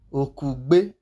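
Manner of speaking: "Okugbe" with g and b released together; GB example. Shown as a demonstration. Teacher giving an example, joined gb in Okugbe. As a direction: make one sound of the gb in "Okugbe". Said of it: "You can hear the B sound".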